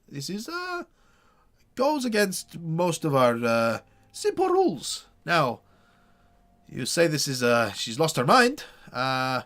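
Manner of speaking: a hint of a skeptical town leader, slow in places; burgomaster. GM voices the burgomaster.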